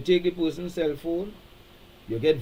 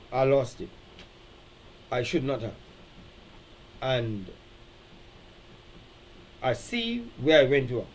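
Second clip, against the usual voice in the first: humble admission; 4 semitones lower than usual. Shown as a demonstration. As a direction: own it gently. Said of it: "All of those words, taking responsibility".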